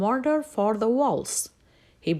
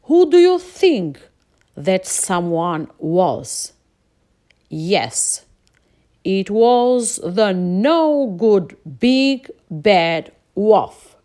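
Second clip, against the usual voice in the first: suspenseful build-up; 2 semitones lower, 10 dB louder, slower than usual. A narrator's reading. Storyteller builds suspense for children.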